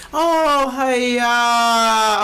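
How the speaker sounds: a hint of a Malaysian uncle accent; lightly voiced Uncle Roger accent. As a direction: slip into the Uncle Roger cadence. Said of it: "too much Uncle Roger".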